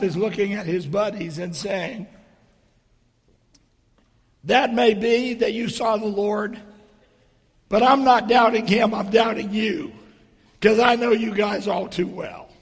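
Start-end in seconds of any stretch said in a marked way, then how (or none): 4.4-12.5 loud. Retold or imitated. Thomas doubting his buddies.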